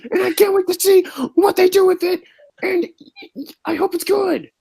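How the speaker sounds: high squeaky mock voice. The speaker mocks, high squeaky voice.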